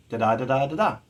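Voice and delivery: da-DA three times, rising at the end; three iambs. Shown as a demonstration. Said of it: "iambic trimeter".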